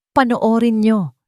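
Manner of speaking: slow, firm order; stern command. A narrator's reading. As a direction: lay down the order deliberately. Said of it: "utos niya". (mabagal at mariing utos)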